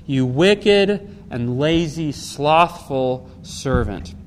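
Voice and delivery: very slow, weighty condemnation; stern rebuke. Acted. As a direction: spell out each reproach slowly. Master rebukes servant in parable.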